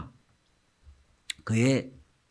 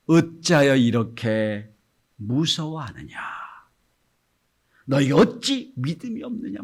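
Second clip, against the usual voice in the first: gentle rebuke; 2 semitones higher, slower than usual. Acted. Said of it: "이렇게 말씀하십니다".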